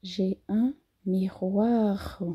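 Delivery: "miroir" with a strongly rolled final R; slow, stress the last R of "miroir". Shown as a demonstration. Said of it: "o último R do miroir é bem acentuado". (R final de "miroir" bem acentuado)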